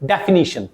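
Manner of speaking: डेफिनेशन said as de-fi-NI-shun; correct pronunciation. Shown as a demonstration. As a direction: say डेफिनेशन with an "ee" before the final shun. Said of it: "कैसे pronounce करोगे". (डेफिनेशन का सही उच्चारण, "डे-फ़ि-नी-शन")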